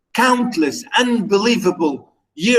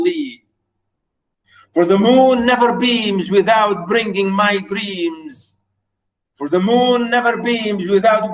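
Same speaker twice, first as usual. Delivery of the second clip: poem recital. Acted. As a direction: read it like a lament for a lost love. Teacher reads the poem aloud.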